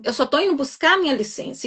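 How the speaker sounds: chin held high. Retold or imitated. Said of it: "falei de queixo erguido, com muita prepotência".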